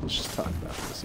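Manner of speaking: soft, breathy, burning mouth; strained words after the hot chip; mouth on fire. Real, not acted. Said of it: "my mouth is on fire".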